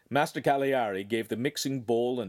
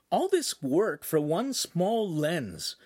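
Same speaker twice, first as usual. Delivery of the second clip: inner grumble; 7 semitones higher, slower than usual. Acted. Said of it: "Lincoln thought".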